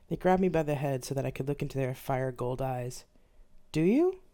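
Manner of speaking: loom over them and demand an answer; domineering spirit testing a mortal; Lilith's stern questioning. Acted. Lilith interrogates the cowering human.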